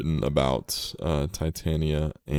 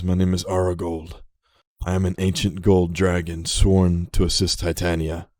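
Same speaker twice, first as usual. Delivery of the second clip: put-on proud, louder old dragon announcing himself; ancient dragon speaking; 6 dB louder than usual. The dragon Aragold introduces himself to Lily, proud and louder. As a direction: boom a little as the ancient gold dragon.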